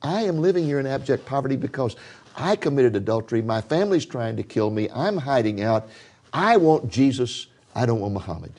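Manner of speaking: high-pitched plea, as if through tears; a man retelling a weeping woman's confession; retold weeping. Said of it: "the woman began to weep and weep and weep".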